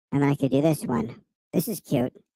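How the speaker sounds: squeaky, high-pitched voice like after inhaling helium. Showing voice changes on a new device: helium voice. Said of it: "Like I just inhaled helium from a helium balloon".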